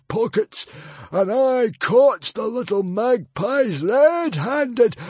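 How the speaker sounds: very high, loud, slow screech; the librarian screeching back at the mother. A narrator's reading. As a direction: screech it out in scorn. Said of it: "screeched the librarian".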